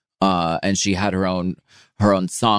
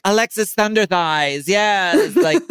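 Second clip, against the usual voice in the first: excited; 11 semitones higher than usual. Retold or imitated. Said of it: "people were like".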